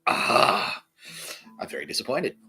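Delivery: angry beyond anger, so gone calm; calm serial killer anger. Retold or imitated. Telling off his team in calm serial killer anger. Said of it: "like serial killer anger".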